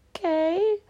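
a resigned little whisper; whispered okay. Retold or imitated. To the nurse walking out, a small resigned whisper. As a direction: breathe it out, defeated. Retold reply to nurse leaving.

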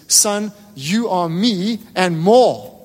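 very slow, gentle father's promise; tender fatherly line. Retold or imitated. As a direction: let each word land slowly, like a father reassuring his son. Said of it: "his dad just looks at him and says".

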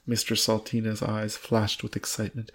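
measured storybook reading with lightly acted dialogue; story narration. A narrator's reading. Reading a novel aloud to a co-host, measured story narration. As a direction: read the tale out deliberately, lightly voicing the lines.

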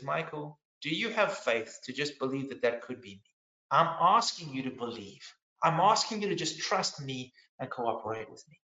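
lightly voiced Lord, quietly asking for trust; gentle voice of God. The Lord asking Michael to have faith, gently voiced. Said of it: "the Lord spoke to me".

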